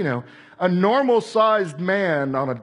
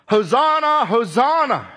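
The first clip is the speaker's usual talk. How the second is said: raised, ringing hosanna; crowd cry; 4 semitones higher, 5 dB louder than usual. Retold or imitated. Preacher echoing the crowd's cry, raised and ringing. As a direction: call it out like a crowd.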